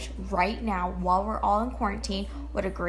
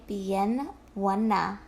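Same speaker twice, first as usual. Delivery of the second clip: flirty reply; 2 semitones lower, much slower than usual. Shown as a demonstration. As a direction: purr Bien buena back with a wink. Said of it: "you're gonna say".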